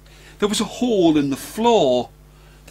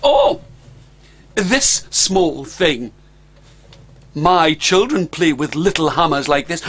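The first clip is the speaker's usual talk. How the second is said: bluffing Stan. Acted.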